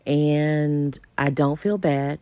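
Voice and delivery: low, a little scratchy from allergies; slightly scratchy voice. Real, not acted. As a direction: talk with a mildly scratchy, allergic voice. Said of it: "my voice is a little scratchy".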